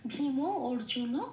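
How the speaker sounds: ভীম অর্জুন spoken slowly, word by word; slow recitation. Shown as a demonstration. Teacher slowly reciting a Gita line. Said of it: "second পার্টটা হলো ভীম অর্জুন".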